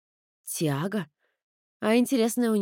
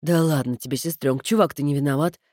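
giggling brother; 4 semitones lower than usual. Acted. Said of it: "хихикнул Кода".

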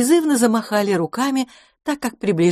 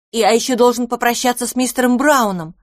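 put-on high, eager little child voice; little boy voice; 6 semitones higher, 4 dB louder than usual. A narrator's reading. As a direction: speak like a small pleading boy.

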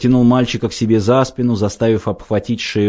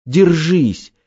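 put-on high, loud desperate child's cry; desperate shout; 9 semitones higher, 4 dB louder, much slower than usual. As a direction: beg him to hold on, crying out. Boy holding drowning father.

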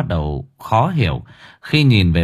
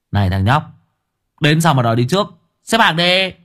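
mild scolding; 5 semitones higher than usual. Acted. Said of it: "nhăn nhó, kéo thằng nhỏ rồi giành xe".

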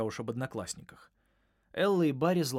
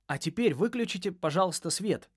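higher, louder dramatic announcement; showman announcement; 7 semitones higher, 5 dB louder than usual. A narrator's reading. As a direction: build it up for the big reveal. Announcing to the class.

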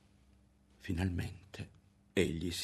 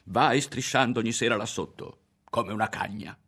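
lightly threatening, louder in the middle; a touch of a boy's threat; mild menace; 3 semitones higher, 5 dB louder than usual. Acted. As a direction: lean in and accuse her. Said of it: "e la guardò minaccioso".

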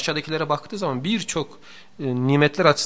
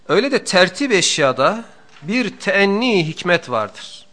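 louder, higher, measured reading of a sacred text; formal text reading; 7 semitones higher, 7 dB louder, slower than usual. Acted. Teacher reading the book to his students, in a raised, formal reading voice. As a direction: recite the passage with weight. Reads the classic text aloud.

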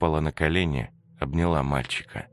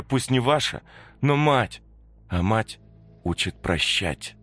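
higher, earnest mother's voice; Katya pleading; 7 semitones higher than usual. Acted. Katya teaches the ghost children forgiveness, higher earnest plea. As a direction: plead gently, slowing at the end.

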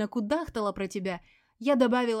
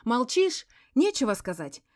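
loud, higher, venomous yelling; furious tirade; 3 semitones higher, 8 dB louder than usual. A narrator's reading. Veronika rages at her silent ex, loud yelling. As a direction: hurl insults at the silent husband.

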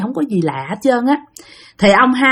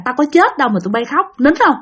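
higher-pitched retold telling-off; mock scolding; 5 semitones higher than usual. Dying grandmother tells crying family to stop, retold scolding. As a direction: imitate a grandmother sharply hushing the family. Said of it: "cứ khóc là ngoại la".

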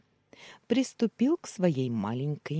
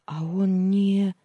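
anxious wife; 6 semitones higher, 8 dB louder, slower than usual. Acted. Wife voiced asking anxiously.

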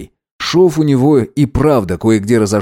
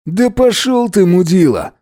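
higher, slow angry outburst; higher furious insult; angry retort; 7 semitones higher than usual. Acted. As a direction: spit the insult at him. Gavrilov insults rival.

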